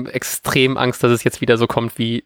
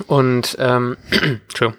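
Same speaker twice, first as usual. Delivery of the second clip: clearing a scratchy throat; something stuck in the throat; frog in throat; slower than usual. Real, not acted. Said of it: "ich hab irgendwas im Hals die ganze Zeit".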